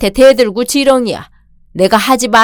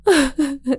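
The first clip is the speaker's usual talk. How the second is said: soft sob; 5 semitones higher, 7 dB quieter than usual. Acted. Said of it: "울지 마세요".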